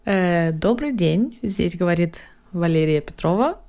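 langsam, förmlich am Telefon auf Russisch; Kundenservice-Stimme. Shown as a demonstration. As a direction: wie eine höfliche Hotline-Mitarbeiterin melden. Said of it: "Sag mal bitte". (förmliche Telefonstimme auf Russisch)

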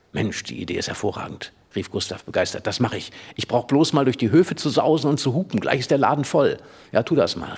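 lively read-aloud storytelling; story narration. A narrator's reading. Reader narrating Emil's chase through Berlin, lively read-aloud. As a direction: tell the boys' chase like a children's book. Reads Emil und die Detektive aloud.

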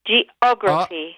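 „Geography“ langsam, mit Betonung auf dem o; Betonung nachsprechen. Shown as a demonstration. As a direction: sprich „Geography“ gedehnt und tastend nach. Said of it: "die drittletzte Silbe wird betont". („Geography“ langsam nachgesprochen, o betont)

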